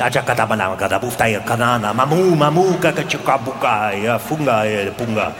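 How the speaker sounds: low, fast caveman gibberish; sneaking cavemen. Acted. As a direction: creep up murmuring nonsense words. Männer schleichen sich an. (tiefes, leises Höhlenmenschen-Gemurmel beim Anschleichen)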